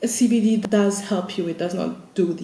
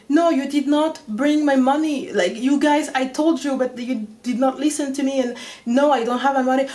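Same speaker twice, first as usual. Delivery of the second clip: exasperated; 4 semitones higher, 4 dB louder than usual. Retold or imitated. Arguing with the French guy.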